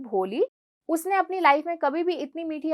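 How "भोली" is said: soft, lower, tender call of the name; sweet soft call. Retold or imitated. Teacher gently calling the crying girl by name, soft and sweet. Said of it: "बहुत ही प्यारी सी आवाज में बोलती हैं".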